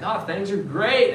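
bright forced "things are great", high and slow; put-on cheerful front. Churchgoer faking cheer to friends at church, put-on bright. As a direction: fake it like all is fine.

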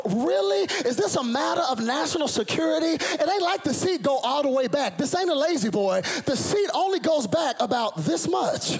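high, loud indignant rant; mock outrage. Preacher mocking the stewardess, high loud indignation.

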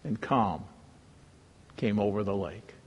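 whispered, soft telling of the calm; whispering softly; hushed narration. A narrator's reading. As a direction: let the words settle like still water. Storm stilled, voice hushed.

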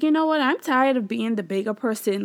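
mildly heated, replaying being fed up; fed-up retelling. Wife retelling getting mad at her husband, fed up. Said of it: "I got mad because he was mad".

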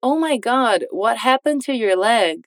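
slow, clear model read; slow model line. Shown as a demonstration. Teacher models the line slowly for students. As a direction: say it slowly for learners to repeat. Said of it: "Agora tudo junto".

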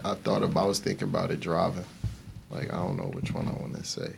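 tired monotone, barely any lift. Real, not acted. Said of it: "Sorry, I'm super monotone at the moment".

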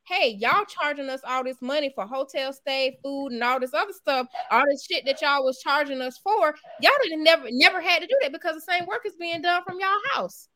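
rising, exasperated client voice; mock outraged client; indignant complaint. Clients complaining about the charges.

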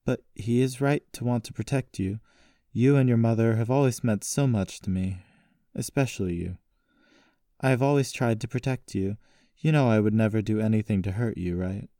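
a hint of a protective uncle; reassuring uncle. Voices Uncle Wentz reassuring her.

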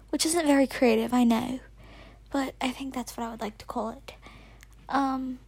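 an American girl holding a mock British accent; put-on British accent. Kid podcaster dedicating her show to Oscar, British accent. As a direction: keep up a playful fake British accent all the way. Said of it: "speak in a British accent 'cause he's never heard my real voice".

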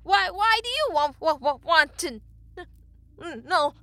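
high, loud panicked stutter; terrified stammer. A narrator's reading. Frozen blacksmith questioning the creature, stammering in terror. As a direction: trip repeatedly on the words in fright.

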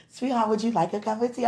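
offering tea like a doting spouse; pretend husband offer. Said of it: "I'm gonna do it, too".

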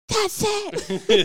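high, loud final verdict; fed-up mom. Retold or imitated. Mom deciding to confront her son. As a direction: announce you have had enough. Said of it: "I'm like".

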